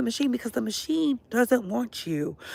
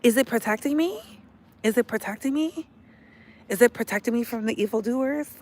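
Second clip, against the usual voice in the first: amazed; 3 semitones higher than usual. Retold or imitated. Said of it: "I was like".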